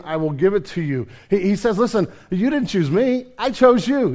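preaching the verse at full force; emphatic scripture read. Acted. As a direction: declare the verse boldly.

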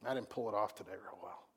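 soft, low, admitting failure to yourself; quiet bedtime confession. Retold or imitated. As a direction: murmur it into the pillow. Self-quote lying in bed at night.

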